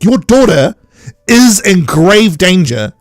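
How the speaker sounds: hammed-up indignation, leaning slowly on key words; mock scolding. Viewer berating the mum for complaining about heels, mock scolding.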